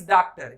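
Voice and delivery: doctor as "daaktar"; incorrect pronunciation. Shown as a demonstration. Teacher rejecting a mistake, doctor said "daaktar". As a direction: open the vowel of doctor to "daa". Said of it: "ये कहीं से डा नहीं है".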